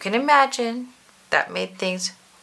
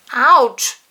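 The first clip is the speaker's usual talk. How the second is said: loud squeaked ouch; 5 semitones higher, 8 dB louder than usual. A narrator's reading. Mister Bounce landing in hot coffee, loud squeak. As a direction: yelp it as the hot coffee hits. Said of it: "squeaked Mister Bounce".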